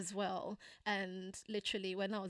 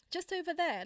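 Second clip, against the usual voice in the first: imitating mom; 8 semitones higher, 5 dB louder than usual. Mom pointing out cotton pad.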